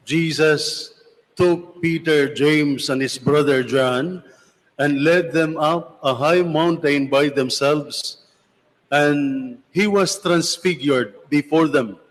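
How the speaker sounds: solemn, measured scripture reading; gospel reading. Acted. Priest reads the Gospel aloud.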